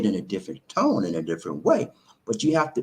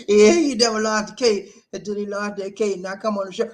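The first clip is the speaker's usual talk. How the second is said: higher voice breaking up with laughter; laughing hard; 5 semitones higher than usual. Real, not acted. Host teasing about the one lost case, laughing. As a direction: push the words out through laughter.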